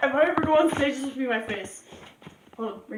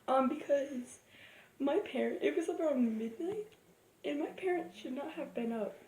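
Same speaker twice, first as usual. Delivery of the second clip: hushed, spooky storytelling; haunting voice; 3 semitones lower, 13 dB quieter than usual. Real, not acted. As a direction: tell a ghost story quietly. Telling horror story at night hushed.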